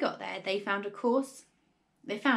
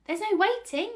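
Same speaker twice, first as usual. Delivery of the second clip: very high, loud excited cry; overexcited father; worked up; 12 semitones higher, 6 dB louder than usual. A narrator's reading. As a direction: cut in, bursting with impatience. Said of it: "working himself up so much".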